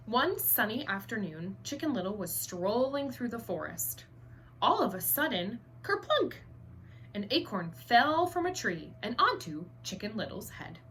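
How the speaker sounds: expressive storybook read-aloud; reading to children. A narrator's reading. Teacher reading Chicken Little aloud to the class. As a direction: read it so the kids can picture it.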